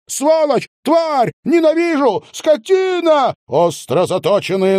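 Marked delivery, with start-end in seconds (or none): 0.1-3.3 very high, wailing screams of hate; wailing fury. A narrator's reading. Zhanna attacking her cousin, wailing fury. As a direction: howl like a wild cat. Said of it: "завывая, как дикая кошка".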